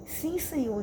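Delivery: reply obediently with mild awe; holy fear. Retold or imitated. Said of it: "um medo santo".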